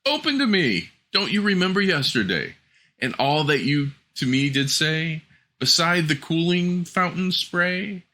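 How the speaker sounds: high frog voice, half-chanted rhyme; frog crying out. Acted. Frog at the door reminding the princess of her promise, high and sing-song. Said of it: "knocked a second time and cried".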